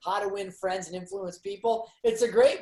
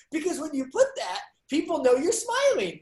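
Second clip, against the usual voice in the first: dad explaining to son; 7 semitones higher than usual. Retold or imitated. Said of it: "I was like".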